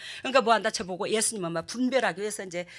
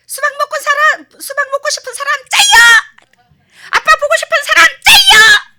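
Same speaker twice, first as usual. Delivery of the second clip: very high, very loud chant; hammed-up child cheer, shouted high; 18 dB louder than usual. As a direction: yell it like a cheerleading kid show. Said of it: "막 그러거든요".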